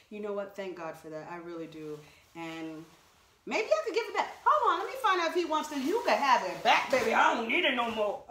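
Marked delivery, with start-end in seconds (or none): 3.5-8.2 high, loud call to another room. Real, not acted. Offering the jacket back to her husband, calling out. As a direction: call out playfully.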